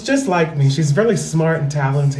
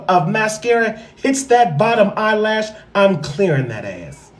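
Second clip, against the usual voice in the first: mock threatening aunt. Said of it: "I said".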